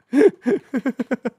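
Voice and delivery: loud high laugh. Real, not acted. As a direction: burst of laughter. Laughing at own joke.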